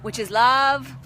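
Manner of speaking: put-on playful spiritual teacher with an Indian accent; Indian guru accent. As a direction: savour each word as an Indian-accented guru. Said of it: "It is like my Indian guru side".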